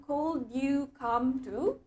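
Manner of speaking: very slow "Could you come to?", drawn out and rising; wrong version. Shown as a demonstration. Teacher shows students the form to avoid, very slowly. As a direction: stretch out the wrong form slowly, like a question left hanging. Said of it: "Oke, jadi bukan".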